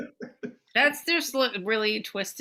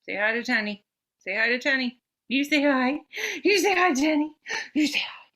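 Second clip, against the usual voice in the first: excited urging; 5 semitones higher than usual. Real, not acted. Owner eggs the dog on to bark, building excitedly.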